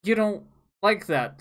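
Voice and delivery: high, loud, mock-reasonable company voice; mock corporate reply. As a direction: play the publisher caving in. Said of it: "So they go".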